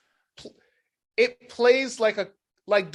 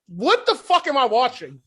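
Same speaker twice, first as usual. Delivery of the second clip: high, loud recreation of shocked disbelief; loud incredulous outburst, half laughing; retold disbelief; 8 semitones higher, 7 dB louder than usual. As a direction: replay your outrage at the screen, pitched way up. Acting out past shock at film.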